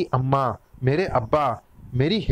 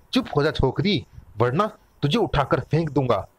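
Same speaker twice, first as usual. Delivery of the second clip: usual speaking voice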